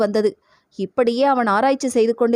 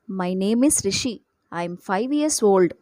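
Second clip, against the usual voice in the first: put-on slow, carefully spelled-out English like a proud five-year-old; a small boy reciting his introduction slowly and proudly; little boy showing off to a grown-up, slow and proud; 3 semitones lower, much slower than usual. A narrator's reading. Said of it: "பெருமையுடன் தெரிவித்தான் ரிஷி".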